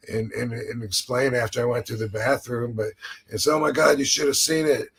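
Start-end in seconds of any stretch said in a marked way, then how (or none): 3.5-4.9 raised, exclaiming mock report; mock disgusted amazement. Joking about reporting a bathroom trip to his partner, mock disgust.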